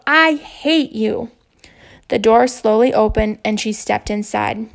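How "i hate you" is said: hurt yell. Acted. Boy yelling through door.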